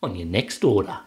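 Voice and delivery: hammed-up Australian accent with swooping pitch; playful, exaggerated Aussie sign-off; put-on Aussie accent. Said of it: "I don't know what that accent was".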